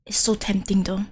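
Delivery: whispered aside; whispering. Real, not acted. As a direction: whisper it to yourself. Unvoiced aside.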